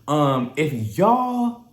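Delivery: slow deliberate teacher voice; mock teacher. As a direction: lecture like a teacher holding a pen. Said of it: "like I'm somebody damn teacher".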